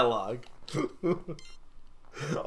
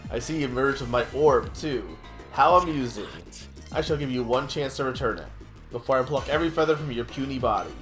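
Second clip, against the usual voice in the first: gloating villain, lightly voiced; smug villain. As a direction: taunt like a cartoon villain.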